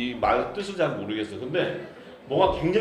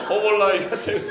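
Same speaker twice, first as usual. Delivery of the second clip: louder, chuckling through 허벌나기가; laughing while praising 허벌나기가; laughing emphasis; 7 semitones higher, 6 dB louder than usual. Real, not acted. Pastor ranking dialect words, laughing loudly. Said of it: "억수로 좋다는 허벌나기보다 약해".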